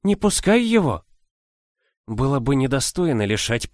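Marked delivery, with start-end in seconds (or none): 0.0-1.0 put-on old woman voice. A narrator's reading. Old nanny warning the mistress.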